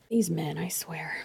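breathy conspiratorial whisper; hushed aside to the viewers. Real, not acted. Whispered aside about men.

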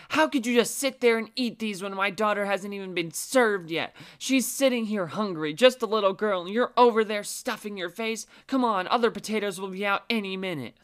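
put-on high, loud entitled tirade at an old lady; mock yelling mom. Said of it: "Helen yelled at the old lady".

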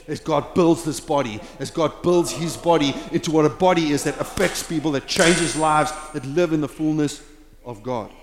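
building, fired-up preaching; excited preaching. Real, not acted. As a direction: lean in, rising excitement. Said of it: "Sorry if I'm a little excited".

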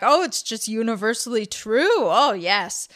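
light imitation of a Polish accent; thick Polish accent. Imitating classmate agreeing with everything, Polish accent. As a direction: put on a hint of Polish accent. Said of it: "had a thick accent".

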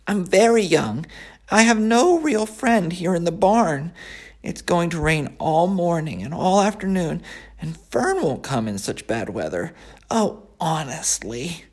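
high, whiny piglet voice; a disappointed young pig. Acted. Wilbur laments being friendless.

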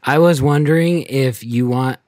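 high, loud, stammering schoolkid; nervous kid voice. Acted. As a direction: push it out like a scared third grader. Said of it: "you're the kid".

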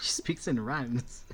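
breathless, slow stage whisper; hushed playful whisper. Real, not acted. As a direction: whisper it as a teasing aside. Teasing aside after the rhyme.

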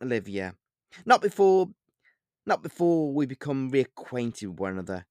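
lightly voiced suave vampire; snooty vampire.

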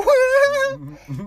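high, loud cracking laugh; shrieking laugh. Real, not acted. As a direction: laugh until your voice cracks. Laughing at the story.

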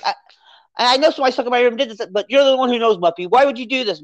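imitating an upset girl, half-hearted; retold anger. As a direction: accuse her friend, heated and quick. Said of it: "she gets really mad".

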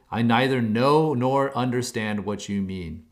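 a mild slow stubborn denial; flat-out denial. Retold or imitated. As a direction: spell out each word of the denial. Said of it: "Peter flat out denies it".

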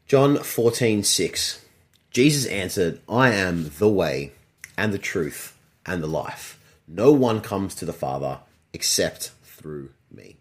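slow, low, solemn Bible reading; scripture reading. Acted. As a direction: read the verse slowly and reverently. Reads scripture slowly.

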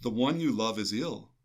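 measured proclamation of scripture; gospel reading. Acted. Reading the gospel aloud to listeners, measured proclamation. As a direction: read the gospel steadily, like at the ambo.

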